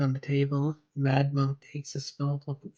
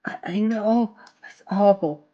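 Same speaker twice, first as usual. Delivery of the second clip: mock shock; 5 semitones higher, 6 dB louder than usual. Harley feigns horror at Batman.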